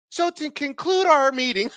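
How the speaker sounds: high-pitched mock presenter; stage presenter. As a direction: mimic the presenter moving on, up high. Mimicking the presenter moving on.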